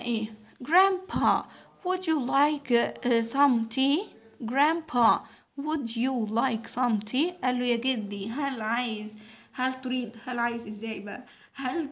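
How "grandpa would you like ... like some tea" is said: reading a dialogue aloud. Shown as a demonstration. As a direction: act out the grandchild offering tea. Reading dialogue line to kids.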